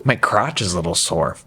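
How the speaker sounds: mock a player whining about soreness; whiny mock player. Player excusing himself from the game, whiny mock. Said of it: "But if you're like".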